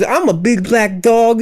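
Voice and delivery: slow, high lisping tough dog; Mike Tyson. Pretend. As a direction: lisp it out like a boxer. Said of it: "Why does he talk like Mike Tyson".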